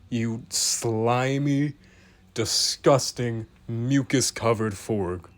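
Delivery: slow, relishing each insult; drawn-out disgust. Acted. Narrator slowly roasting the ugly frog toy, drawn-out mock disgust. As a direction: savour every gross word.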